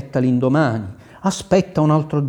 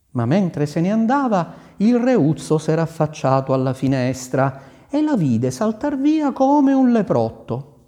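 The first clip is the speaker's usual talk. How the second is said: plain reading voice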